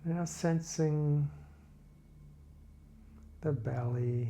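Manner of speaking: calm body-scan narration, phrases spaced far apart; guided meditation. Real, not acted. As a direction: guide listeners gently through a body scan, unhurried.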